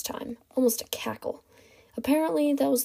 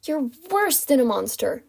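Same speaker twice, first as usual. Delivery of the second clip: understated outraged cry, higher pitch; mild scream; 4 semitones higher than usual. Acted. Captive accuses kidnapper, mildly raised cry. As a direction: protest without fully yelling. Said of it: "she screamed".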